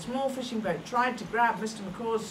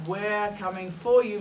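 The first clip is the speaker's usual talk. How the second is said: louder call to the kite; shout; 6 dB louder than usual. Acted. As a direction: shout up into the tree. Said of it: "Maxton shouted".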